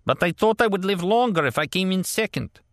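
put-on high, pleading old man voice; plaintive old man. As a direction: explain in an old man's plaintive tone. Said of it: "he explained".

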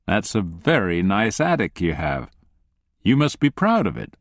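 mock sympathy from the captor; amused, mock-sympathetic. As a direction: sound kindly while threatening. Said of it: "His tone is amused, sympathetic".

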